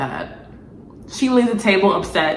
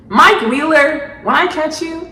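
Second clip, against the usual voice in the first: mock threat; 9 semitones higher, 3 dB louder than usual. Real, not acted. Threatening the character.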